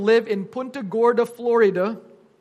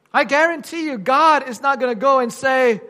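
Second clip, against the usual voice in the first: raised, louder pulpit voice; emphatic preaching; 3 semitones higher, 7 dB louder than usual. Real, not acted. Preacher warning the congregation about God's judgment, emphatic preaching. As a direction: drive the warning home to the congregation.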